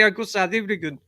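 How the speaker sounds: lapsing into a rough South African accent. Shown as a demonstration. Explaining a failed impression, bad South African accent. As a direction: attempt South African vowels, "African" as "Ivrigin". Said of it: "It's where I always go".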